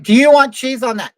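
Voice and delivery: mock rude interruption; interrupting worker. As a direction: snap the question over the customer. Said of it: "they don't even let you finish".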